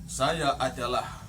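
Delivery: slow, low, dignified self-introduction; intonasi diatur. Acted. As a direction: intone it slowly and with authority. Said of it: "mesti diatur intonasinya". (diucapkan pelan dan berwibawa)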